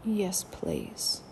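put-on soft child's whisper; whispered yes please. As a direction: whisper it like a sleepy little girl. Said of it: "She said".

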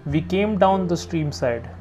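measured, slightly lifted reading voice; poem reading. A narrator's reading. Reader sharing a favourite poem with listeners, measured reading. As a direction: read the poem steadily, savouring the lines. Reads Jeffers poem aloud.

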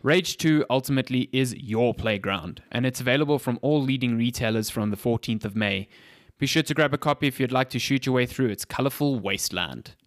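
podcast host reading a game ad; sponsor ad read. Real, not acted. Host to podcast listeners, plugging a game, scripted ad read. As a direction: sell it as a scripted sponsor spot.

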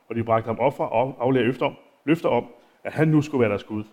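unhurried reading of the text; Bible reading. Acted. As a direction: read the passage out to the congregation. Continues reading the Bible passage.

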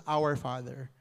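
"Our Father" said low and soft, weighted; stress on Our Father. Shown as a demonstration. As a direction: linger on "Our Father" gently. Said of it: "the heart of that prayer".

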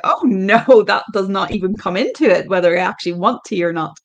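loud laughing retort. Retold or imitated. Mum laughing off her daughter's tea advice. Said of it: "my mum burst out laughing".

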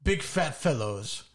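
slow mock-romantic letter reading. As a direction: read it slowly like a love letter, lightly hammed-up. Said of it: "I'm gonna try to do it in a romantic voice".

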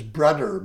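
"brudder" with a d for the th. Shown as a demonstration. Teaching the Jamaican word, "brudder" with a d. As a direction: say "brudder", not "brother". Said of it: "brother is brudder".

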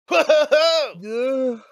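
loud, high surprised whoa; excited shout. Real, not acted. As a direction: shout it out in amazement. Players react to home leaving.

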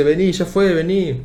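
insistent friend, imitated; urging. Friend urging him to leave.

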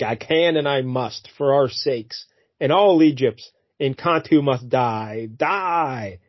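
slow, grave hammed-up vow; slow mock-solemn declaration; melodramatic vow. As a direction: intone it like a grim comic-book villain. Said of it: "He's like".

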